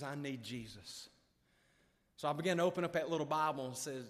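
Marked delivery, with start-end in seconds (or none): 0.0-1.1 quiet, slow and lowered admission; soft confession. Retold or imitated. Father repeats his need to his son, soft confession. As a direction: say it softly and let it sink.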